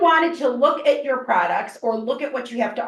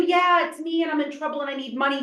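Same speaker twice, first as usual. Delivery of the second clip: put-on higher urgent young caller asking for money; grandson voice; 4 semitones higher than usual. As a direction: rush it, then hush the last words. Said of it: "a voice that sounds like your grandson".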